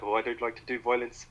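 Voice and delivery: put-on light South African accent on violence; a hint of South African villain. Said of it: "I shouldn't do the South African accent".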